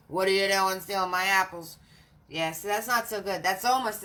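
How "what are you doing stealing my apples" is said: tree voice. Retold or imitated. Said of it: "The tree goes".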